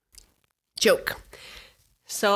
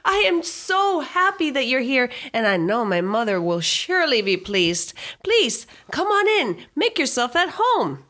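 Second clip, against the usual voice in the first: put-on overly polite little boy; 10 semitones higher than usual. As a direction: play a four-year-old who talks like a butler. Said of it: "He says".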